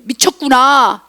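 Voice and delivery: drawn-out mock scoff; retold jeering. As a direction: imitate scoffers, stretching the word slowly. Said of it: "조롱했다는 거예요".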